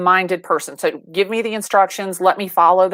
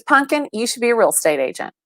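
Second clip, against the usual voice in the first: lightly voiced mom, pitched up; doting mother; 5 semitones higher than usual. Mom advising her upset daughter, lightly imitated doting mother. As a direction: imitate a mother's sweet, sure advice.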